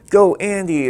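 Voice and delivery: imitating a spectator shout; crowd cheer. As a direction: cheer him on, eye to eye. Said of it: "look at you and say".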